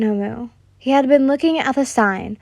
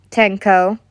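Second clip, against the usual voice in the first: stern; 3 semitones lower, 3 dB louder than usual. Acted. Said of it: "loving voice turned stern".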